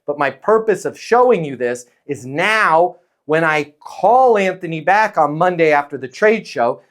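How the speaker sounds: ordinary talk, nothing marked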